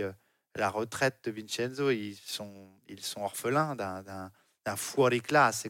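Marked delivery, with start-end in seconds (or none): 4.8-5.7 Italian phrase in a keen Italian accent; slow the Italian words with Italian pronunciation. Real, not acted. Rider slips into Italy's own term, Italian accent. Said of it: "j'adore l'accent italien de Jérôme Pinault".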